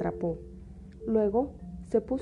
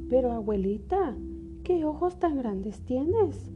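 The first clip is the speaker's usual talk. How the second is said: put-on little girl voice; 4 semitones higher, slower than usual. Caperucita pregunta, asombrada.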